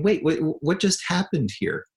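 high, bewildered double take; puzzled as the room empties; a father caught off guard, baffled; baffled surprise. Retold or imitated. Kids scatter, dad left confused.

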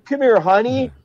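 imitating a kindly woman, high-pitched; motherly comforter. Ambulance driver gathering him in, high motherly coaxing.

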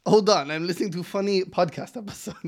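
lightly put-on Russian listener voice; imagined Russian listener. Podcaster plays lone Russian fan putting war aside, playful put-on voice. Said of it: "He's just like".

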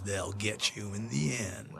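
slow, weighty trailer-voice tagline; trailer voiceover. Retold or imitated. Quoting the TV spot voiceover, slow announcer read. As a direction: read it like the end of a horror movie ad. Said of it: "and the voiceover was".

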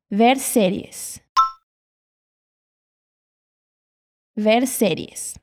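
"Ver séries" said slowly with a clear open E; slow model phrase. Shown as a demonstration. Teacher slowly modelling "Ver séries" for repetition. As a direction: draw out "Ver séries" so every vowel is heard. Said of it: "Atenção ao som do E".

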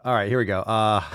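usual speaking voice

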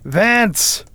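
high, ringing call into another room; loud call. A narrator's reading. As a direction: summon someone loudly, pitch jumping up. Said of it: "called out in a loud voice".

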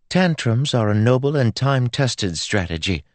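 high, breezily self-satisfied; airy. A narrator's reading. Girl defends her tantrum to Joel, airy. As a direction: toss it off as lofty wisdom. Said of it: "she said airily".

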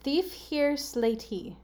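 deliberate puzzle repetition; slow readout. Shown as a demonstration. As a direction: spell it out by ear, word by word. Repeating gibberish clue for guesser.

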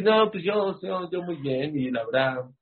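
hammed-up self-satisfied shrug; foolish self-excuse. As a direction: play the fool brushing it off. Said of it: "no como tonto".

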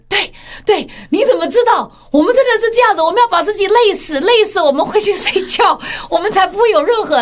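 high, loud, laughing agreement of the husbands; lightly voiced men excitedly agreeing; eager husbands. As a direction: cheer along like delighted husbands.

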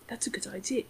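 put-on "That's a good idea" whispered in a faint, half-hearted British accent; a sheepish hushed British accent attempt; whispered British accent retry. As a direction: breathe the line as a shy British accent. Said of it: "I can't do a British accent".

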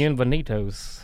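slow announcer Bienvenidos; hammed-up Spanish welcome; mock Spanish voiceover. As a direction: roll out Bienvenidos like a TV host. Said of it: "I'll read it, like, in Spanish".

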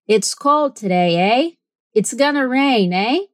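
"eh?" tagged on with a questioning rise; Canadian "eh". Shown as a demonstration. Teacher showing the Canadian "eh". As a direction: end on "eh?" like a Canadian. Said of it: "terminem suas frases com A".

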